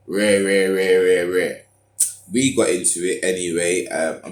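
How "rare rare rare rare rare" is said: mock ranting. Imitating an argument, loud babble.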